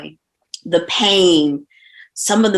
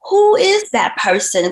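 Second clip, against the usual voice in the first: higher-pitched, amazed quote of oneself; amazed question; 8 semitones higher than usual. Retold or imitated. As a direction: ask it in retold amazement. Retells own amazed reaction.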